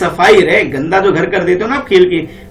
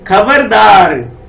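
slow, heavy warning, a bit louder; lightly acted stern papa; mock stern father; 2 semitones higher, 5 dB louder, slower than usual. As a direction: draw out the threat like a strict dad. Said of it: "क्या बोलते हैं".

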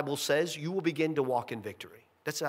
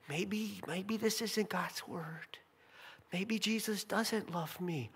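doubting inner voice; 2 semitones higher, 9 dB quieter, slower than usual. Retold or imitated. Voicing the doubting believer.

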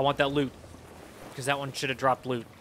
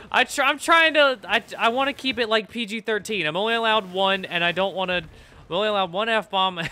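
giggly; 6 semitones higher, 4 dB louder than usual. Real, not acted. Laughing about swearing.

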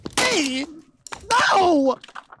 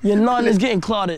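put-on London accent; 3 dB louder than usual. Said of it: "in that accent".

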